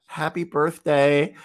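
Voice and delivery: slow, hesitant mock-shy birthday wish; awkward mumble. Shy newcomer wishing a stranger happy birthday, awkwardly. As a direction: play it timid and unsure, drawn out. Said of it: "Like, super quiet and super awkward".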